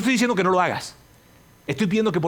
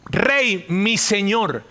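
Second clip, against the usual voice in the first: high, raised hail to a king; shouted call; 5 semitones higher, 4 dB louder, much slower than usual. Acted. David demonstrating his cry to King Saúl, shouted. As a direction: call out respectfully across the distance. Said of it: "David le grita así".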